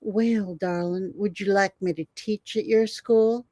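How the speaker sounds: lightly imitated Virginia Southern accent. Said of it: "he had a Virginia accent".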